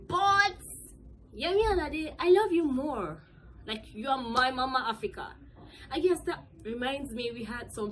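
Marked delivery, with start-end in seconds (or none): 0.1-5.3 gushing fan love. Real, not acted.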